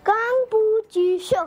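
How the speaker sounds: कांग पू ची शो said in playful mock Chinese syllables; sing-song fake Chinese for radio jockey; mock Chinese words. Shown as a demonstration. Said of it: "तो Chinese में कुछ कहो यार". (नकली चीनी लहजे में)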